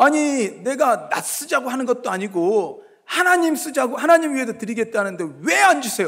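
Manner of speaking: high, loud, sulky complaining tone. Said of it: "막 삐져가지고 막 하나님 앞에 따져요".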